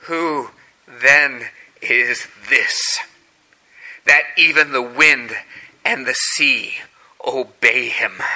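slow, low, fading to a whisper; awed whisper. Acted. Disciples to one another after the calm: awed whisper. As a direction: breathe it out in awe.

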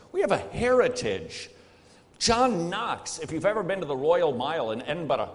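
put-on weak Scottish accent; a hint of a Scottish accent. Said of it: "that's as good as I get at a Scottish accent".

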